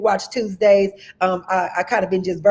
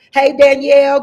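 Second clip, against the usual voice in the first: higher and louder greeting call; excited hey; 4 semitones higher, 7 dB louder than usual. Real, not acted. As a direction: call out to a friend you spot. Greeting viewers in the live chat.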